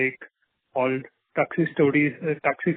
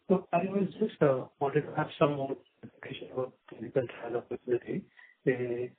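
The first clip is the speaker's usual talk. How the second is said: muffled, softer phone line sound; 6 dB quieter than usual. Real, not acted. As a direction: talk as if the mic is covered. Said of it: "you're sounding muffled again".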